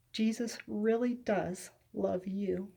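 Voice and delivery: slow, soft heartfelt assurance; sincere and tender. Real, not acted. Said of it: "from the words of that man himself".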